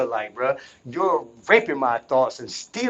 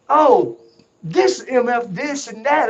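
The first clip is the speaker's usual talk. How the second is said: high, loud mocking voice; mocking the voices' announcements; mock announcer; 9 semitones higher, 4 dB louder, slower than usual. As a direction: ham up their announcing. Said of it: "They're like".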